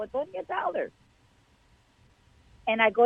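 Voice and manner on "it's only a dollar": excited bargain find. Retold or imitated. Retelling the bargain to husband.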